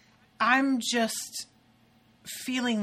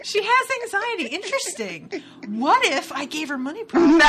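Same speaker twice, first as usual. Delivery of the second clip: high, louder, amused meddling God; mock fascination; 7 semitones higher, 7 dB louder than usual. Playing God testing an anxious woman, mock fascination. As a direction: relish the experiment playfully, pitched up.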